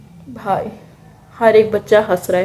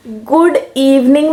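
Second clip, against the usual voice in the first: mock replay; 2 semitones higher, slower than usual. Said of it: "मैं सुबह सुबह school के असेंबली में बोल रही हूँ".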